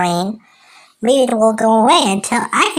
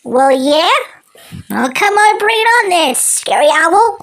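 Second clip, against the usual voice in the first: high-pitched taunting woodpecker; 5 semitones higher than usual. Acted. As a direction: taunt him in a squeaky high cartoon voice.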